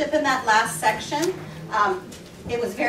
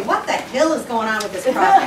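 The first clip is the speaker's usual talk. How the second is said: exasperated joking quote; 4 dB louder than usual. Retold or imitated. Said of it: "so we lightly say".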